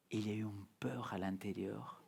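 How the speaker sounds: murmure sans voix, presque un souffle; chuchoté. Real, not acted. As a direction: avouer sa peur dans un chuchotement. Confie sa peur intérieure. (chuchotement d'aveu)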